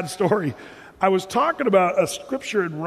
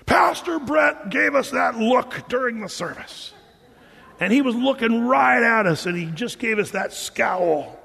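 mock angry complaint; 4 semitones higher than usual. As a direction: imitate offended congregants. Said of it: "our leadership got blasted".

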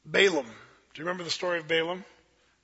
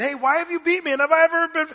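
talking donkey; 9 semitones higher, 6 dB louder than usual. Acted. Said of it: "the donkey starts talking and saying".

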